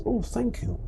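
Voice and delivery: a soft, pleased thank you; a gentle, soft oh thank you; gracious thanks. Retold or imitated. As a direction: accept the compliment sweetly. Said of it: "when somebody says".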